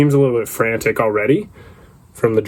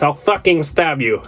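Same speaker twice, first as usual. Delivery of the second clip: slightly raised, hammed-up threat; mock aggressive threat; 4 semitones higher than usual. Imagined driver threatening his passenger, mock aggressive. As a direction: threaten like an accented movie bad guy. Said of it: "He says it that aggressively".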